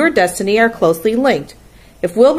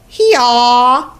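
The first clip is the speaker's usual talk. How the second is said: loud, higher, drawn-out animal call; bleating sheep; 5 semitones higher, 5 dB louder than usual. A narrator's reading. Sheep answer the roll all together, loud drawn-out call. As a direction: bray it out as a flock. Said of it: "answered the sheep all together".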